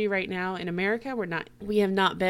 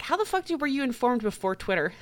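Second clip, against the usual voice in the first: pitched way up, mocking disbelief; incredulous retort; 5 semitones higher than usual. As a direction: scoff at the question. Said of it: "I'm like".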